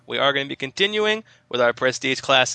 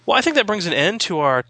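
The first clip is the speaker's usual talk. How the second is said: put-on horrible British accent; 5 semitones higher, 4 dB louder than usual. Host signs off in a hammed-up British accent. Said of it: "talking in a horrible British accent".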